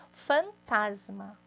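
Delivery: fantasma drawn out slowly, syllables apart; slow and clear. Shown as a demonstration. Teacher showing the word, fantasma slowly. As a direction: sound out fantasma slowly for the class. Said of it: "ó".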